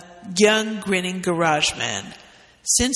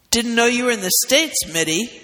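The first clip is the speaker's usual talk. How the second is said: grumbled; 5 semitones higher, 3 dB louder than usual. Acted. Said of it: "grumbled Remington".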